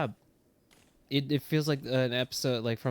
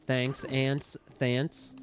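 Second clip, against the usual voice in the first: put-on British accent; much slower than usual. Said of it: "having a British accent".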